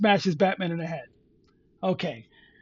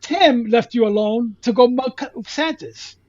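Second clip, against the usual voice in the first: higher, louder, disbelieving rant; incredulous; 4 semitones higher, 5 dB louder than usual. Real, not acted. Host mocks the kid's plot logic, incredulous and louder.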